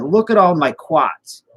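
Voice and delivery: high, slow Boston impression, r dropped in quartz; Boston accent. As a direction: show it off in broad mock Boston. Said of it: "which is quartz".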